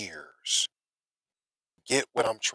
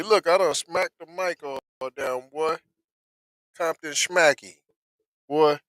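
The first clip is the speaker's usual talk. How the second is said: excited; 5 semitones higher than usual. Real, not acted. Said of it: "'cause I got excited there".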